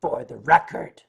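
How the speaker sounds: dry aside to the chat, whispered; pointed whisper. Real, not acted. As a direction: drop to a whisper for the record. Pointed aside after reading tweet.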